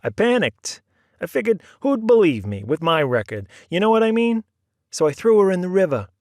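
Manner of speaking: high, loud, excited nervous man; Oscar's confession. A narrator's reading. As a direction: rattle it off like a nervous crook. Oscar confessing, voiced character.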